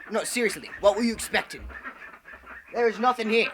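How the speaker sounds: loud mock scolding; mock indignation. Host insisting to viewers there is nothing, mock indignant.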